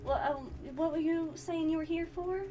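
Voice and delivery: put-on shy young woman. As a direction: sound embarrassed but polite. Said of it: "Delilah's like".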